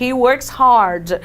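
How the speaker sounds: "He works hard." said slowly, each word separate; slow model English. Shown as a demonstration. Teacher showing students the English, slow and deliberate. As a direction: model the sentence slowly and clearly. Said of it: "ele trabalha duramente".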